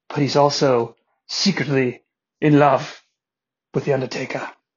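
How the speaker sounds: put-on English accent, low and soft. Introducing wrestling crew members, the speaker slips into an English accent. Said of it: "I did that English voice at the end".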